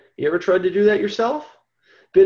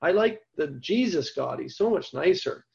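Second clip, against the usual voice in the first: mocking complainers; 4 dB quieter than usual. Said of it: "how many times I've heard".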